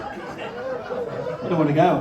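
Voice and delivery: high, slow, whining plea; mock whine. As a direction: whine it like a child. Mock whine at end of set.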